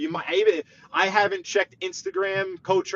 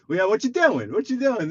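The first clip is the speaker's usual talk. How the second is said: lightly voiced bird, pitched up; nosy parrot; 6 semitones higher than usual. Bird sizing up a store visitor, lightly voiced parrot. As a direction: raise it into a light parrot imitation. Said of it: "He said".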